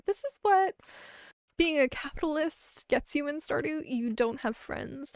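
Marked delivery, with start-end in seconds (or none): 0.1-3.8 exclaiming. Acted. Loud high exclamation.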